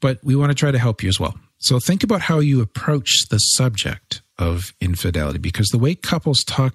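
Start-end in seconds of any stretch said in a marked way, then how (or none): 1.6-5.4 says infidelity by mistake; plain read with the slip infidelity; wrong word. Real, not acted. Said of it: "that is so the wrong word".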